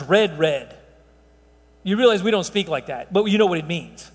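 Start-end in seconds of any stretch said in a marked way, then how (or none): 0.0-0.7 "red, red" said twice, the first drawn out; "red, red" doubled for emphasis, falling on the repeat; emphatic doubling. Shown as a demonstration. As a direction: stretch the first "red", then drop lower on the second "red". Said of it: "the double wording is an emphatic".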